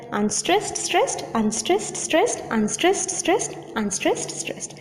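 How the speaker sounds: slow, measured alternation of "unstressed" and "stressed"; iambic beat. Shown as a demonstration. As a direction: chant "unstressed, stressed" in even pairs, slowly. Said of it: "is unstressed and the second syllable is stressed".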